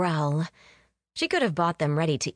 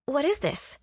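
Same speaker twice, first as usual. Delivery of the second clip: bride; 8 semitones higher than usual. A narrator's reading. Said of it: "the bride asked".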